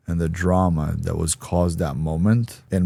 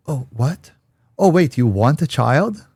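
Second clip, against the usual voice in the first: mock surprise; 8 semitones higher, 6 dB louder than usual. Girlfriend's mood suddenly flips.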